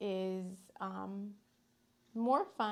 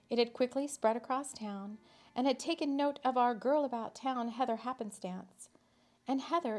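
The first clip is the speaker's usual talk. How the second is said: lively storyteller reading; story narration. A narrator's reading. Reading a whimsical town story to listeners, lively narration. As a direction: tell the tale with a light touch. Reads Heather story aloud.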